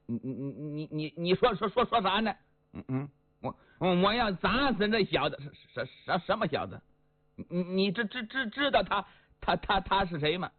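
lightly played stuttering hothead; stammering Li Yuanba. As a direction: stammer out each word, tripping over it.

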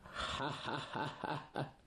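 soft, smug villain laugh. Acted. Monk mocks the weeping disciple, smug laugh. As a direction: chuckle at the hero's grief. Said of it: "惠宾一乐".

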